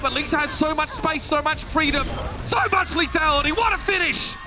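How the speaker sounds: rising excited caster yell. Real, not acted. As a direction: build to a shout at the finish. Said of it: "I know I'm yelling at a draw".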